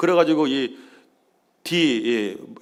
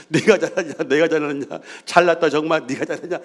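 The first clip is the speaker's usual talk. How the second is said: laughing bicker; 2 semitones higher than usual. Retold or imitated. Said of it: "서로 그렇게 한지는".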